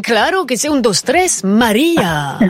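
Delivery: a hint of a hammed-up Spanish accent; mock Spanish accent, played for laughs; mauvais accent espagnol. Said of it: "mon accent espagnol, c'est pas ça". (imitation ratée d'un accent espagnol)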